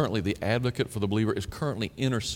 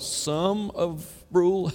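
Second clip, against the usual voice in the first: slow, higher teasing "Some of rule?"; playful fake guess; mock wrong answer; 6 semitones higher, much slower than usual. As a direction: tease the congregation.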